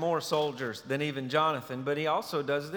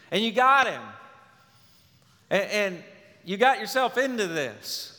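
scolding, a bit raised, building; a hint of a stern, reproaching God; reproachful God; 2 semitones higher than usual. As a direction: lecture the people for their own choice. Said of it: "He doesn't say to his people".

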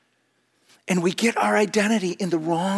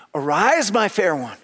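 rising call; 3 semitones higher, 3 dB louder than usual. Shown as a demonstration. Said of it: "he says it twice".

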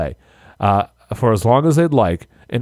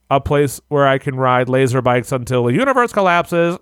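robot voice. Shown as a demonstration. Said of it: "Read it like a robot".

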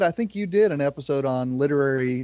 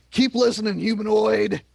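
robot voice; 7 semitones higher than usual. Pretend. Sci-fi sign-off to listener.

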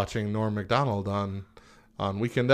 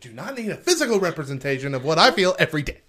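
comic rant; 4 semitones higher, faster than usual. Real, not acted. Comic rant about roller coasters.

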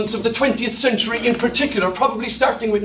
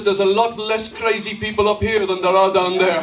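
put-on terrible Dutch accent; 5 semitones lower than usual. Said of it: "I'm doing a terrible Dutch accent".

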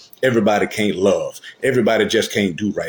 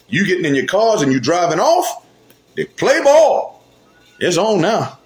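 rising preaching fervor; 6 semitones higher than usual. Real, not acted. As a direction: climb in pitch until the peak. Preaching builds to peak.

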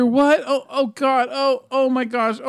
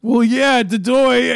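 da doy taunt; 2 semitones higher, 4 dB louder, slower than usual. Acted. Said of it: "where he goes".

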